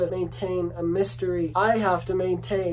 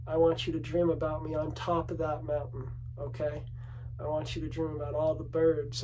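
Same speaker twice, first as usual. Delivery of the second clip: dreamy tonality; 4 dB quieter than usual. Shown as a demonstration. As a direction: paint a dream for her, quietly. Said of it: "Incorporate the five senses with tonality".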